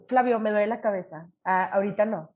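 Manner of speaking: mock headache excuse; lightly feigning a headache; fake excuse. Brushing off the driver with a headache excuse. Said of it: "Como poniendo esa excusa".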